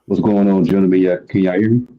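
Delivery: sounds like he's in the bathroom; echoey room, away from the mic. Real, not acted. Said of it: "Sounds like you're in the bathroom".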